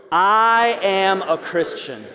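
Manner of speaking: slow, steady declaration with the congregation; said out loud together. Shown as a demonstration. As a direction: lead the room, stretching each word. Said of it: "Here we go".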